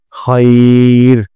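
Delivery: খৈর very drawn out, খৈ not খাই; slow recitation. Shown as a demonstration. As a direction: hold খৈর with a rounded খৈ. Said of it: "খৈ বলতে হবে". (খাই নয়, খৈ বলে খৈর)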